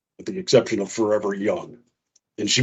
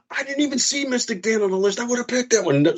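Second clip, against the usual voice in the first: high, whiny mock wife voice; a hammed-up pouty complaint in a high voice; mimicking wife; 12 semitones higher than usual. Husband imitating his mad wife, high and whiny. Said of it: "She's like".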